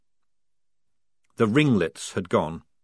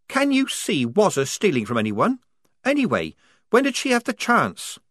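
put-on higher, louder, indignant young soldier; Polly accusing; 11 semitones higher, 3 dB louder than usual. A narrator's reading. Polly blaming Strappy to the squad, indignant and higher. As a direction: drag out come on at the end.

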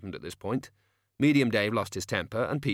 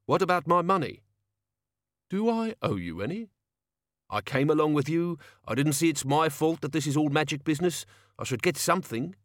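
higher-pitched, aggrieved locksmith voice; indignant locksmith; 7 semitones higher than usual. Acted. Locksmith demands money from Tea Time, indignant. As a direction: argue for your pay as a put-out locksmith.

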